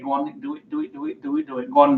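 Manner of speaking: high, soft mimicked chant; quick repeated coaxing, pitched high; egging on. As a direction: imitate a crowd urging someone on. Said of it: "loads of people saying".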